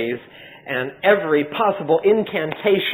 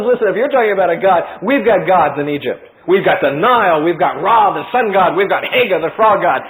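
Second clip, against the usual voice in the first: loud, proud listing of gods; a touch of a haughty king; boastful Pharaoh; 4 dB louder than usual. Acted. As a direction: brag to Moses, chest out.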